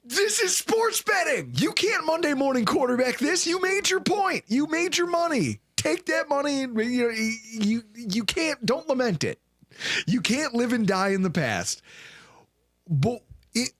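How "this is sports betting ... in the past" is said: much higher, emphatic scolding pep talk; lecturing. Retold or imitated. The host lecturing the regretful kid, much higher and emphatic. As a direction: set him straight like a preacher. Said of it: "I was like".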